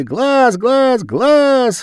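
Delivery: high loud chant; children shouting. A narrator's reading. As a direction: shout it over and over. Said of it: "закричали ребята".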